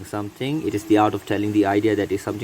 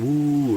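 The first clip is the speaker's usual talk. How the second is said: wind howl; 4 semitones higher than usual. Shown as a demonstration. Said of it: "the wind cry with the sound".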